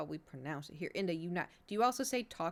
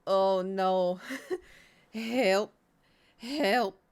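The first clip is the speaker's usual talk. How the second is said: laughing panic; 7 dB louder, much slower than usual. Real, not acted. Panicking over word.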